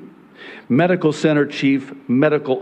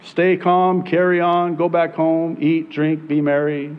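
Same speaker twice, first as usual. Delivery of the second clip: false prophets; 4 semitones higher than usual. Retold or imitated. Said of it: "when the prophets would say".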